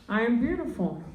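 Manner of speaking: flat and glum "I am beautiful"; saying "I am beautiful" in a gloomy voice; mock-gloomy self-affirmation; depressing affirmation. Shown as a demonstration. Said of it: "It doesn't sound right".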